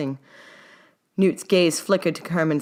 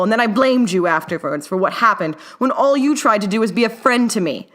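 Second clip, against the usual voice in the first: louder, pleading admission; earnest confession; 6 semitones higher, 5 dB louder than usual. A narrator's reading. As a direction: own it, urgent and sincere. Herman confesses, holding Newt's shoulders.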